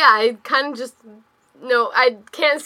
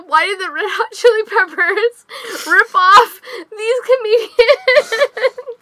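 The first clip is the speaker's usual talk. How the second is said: outraged disbelief; 10 semitones higher, 4 dB louder, slower than usual. Retold or imitated. Retelling her angry reaction.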